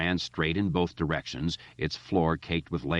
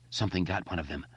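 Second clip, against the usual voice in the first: choked horror; 5 dB quieter, faster than usual. Acted. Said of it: "Mike choked, horrified".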